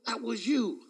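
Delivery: hushed, breathy rebuke; realising the devil's trick, hushed; whispered rebuke. Retold or imitated. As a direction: whisper it as you recognise him. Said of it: "I said".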